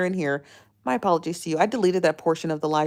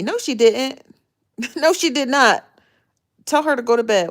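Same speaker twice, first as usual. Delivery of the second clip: laughing; 6 semitones higher, 5 dB louder than usual. Real, not acted. Teasing reply to chat message.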